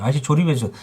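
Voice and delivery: flat, entitled "조립해주세요" with no apology; blunt demand. Shown as a demonstration. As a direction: toss off the request like an order. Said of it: "그게 먼저 나와야죠".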